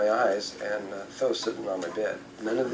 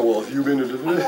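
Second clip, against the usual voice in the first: laughing retelling; 3 semitones higher, 5 dB louder, faster than usual. Retold or imitated. Repeated place quiz, laughing.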